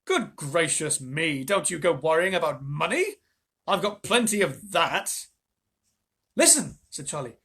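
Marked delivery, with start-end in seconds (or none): 0.0-5.3 reassuring. Acted. Wonka reassuring. 6.4-6.8 eager. Acted. Charlie's idea.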